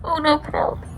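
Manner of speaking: breathless high whisper of dismay. Real, not acted. Viewer whispering at a tense scene, hushed dismay. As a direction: gasp it out under the breath.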